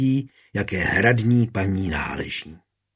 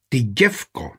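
yell. A narrator's reading. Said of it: "zařval".

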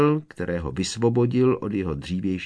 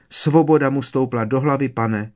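sad; 5 semitones higher, 5 dB louder than usual. A narrator's reading. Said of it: "řekla Winky smutně".

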